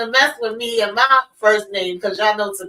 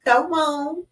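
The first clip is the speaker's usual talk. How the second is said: excited; 12 semitones higher than usual. Retold or imitated. Hyped reaction, high voice.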